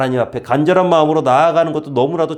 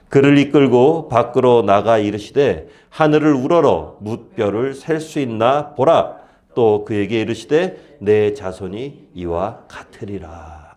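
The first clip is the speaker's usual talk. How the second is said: scripture reading; slower than usual. Acted.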